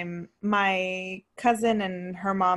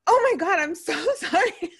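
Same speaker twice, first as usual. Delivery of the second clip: flustered apology; 9 semitones higher, 4 dB louder than usual. Retold or imitated. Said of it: "and I was like".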